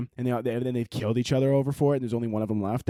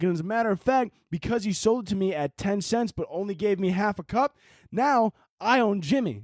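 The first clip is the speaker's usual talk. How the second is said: mock smug vlogger; 6 semitones higher than usual. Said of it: "He's like".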